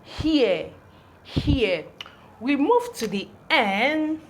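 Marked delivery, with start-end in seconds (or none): 0.0-1.8 "here" said alone as hee-eh, falling; "here" repeated separately, no final r; pronunciation demo. Shown as a demonstration. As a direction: model "here" with a clear h. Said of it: "this is the he sound".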